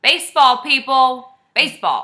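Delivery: emphatic correction. Real, not acted. Correcting sport, emphatic call-out.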